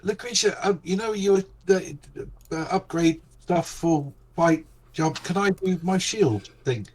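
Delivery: gasping out the words after flying; out of breath. Pretend. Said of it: "Less frantic".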